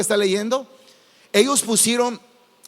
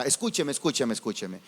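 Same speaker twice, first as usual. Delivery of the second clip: hushed plea; 8 semitones lower, 9 dB quieter than usual. Real, not acted. Preacher calls for attention.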